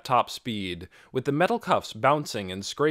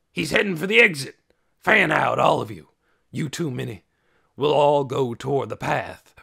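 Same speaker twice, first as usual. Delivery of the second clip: loud, commanding, raised voice; shouted orders; 4 semitones higher, 8 dB louder than usual. A narrator's reading. Trog sending the searchers after Dune, shouted commands. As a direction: bellow orders to a search party.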